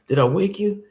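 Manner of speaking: lightly voiced apologetic pastor; pastor's voice. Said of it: "He'd be like".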